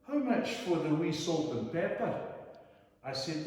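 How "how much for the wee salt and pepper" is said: higher, lightly voiced posh old Scottish lady asking a price; a hint of a grand lady enquiring; voicing the Scottish lady.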